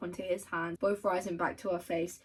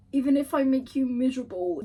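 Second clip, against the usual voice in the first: gushing; 5 semitones higher, 7 dB louder than usual. Real, not acted. Rereads quote emotionally.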